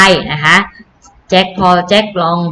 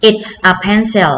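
"It's a pencil" slowly with falling end; teacher slowly models the answer; slow model repeat; much slower than usual. Shown as a demonstration. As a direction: say it slow for the kids.

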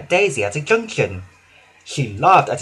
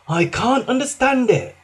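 puzzled workman; 9 semitones higher than usual. Acted.

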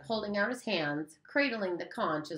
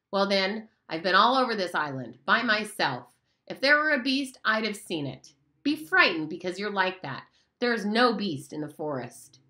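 lightly voiced bossy boy leader, raised pitch; a hint of a scornful older boy lording it over the little ones; Jack; 3 semitones higher, 5 dB louder than usual. Jack boasts to the assembly.

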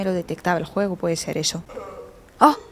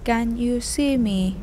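slow, stilted machine-translator English; careful text-to-speech style questioning; Google Translate voice; much slower than usual. Pretend. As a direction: space out each English word like translation software. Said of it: "Como Google Translate".

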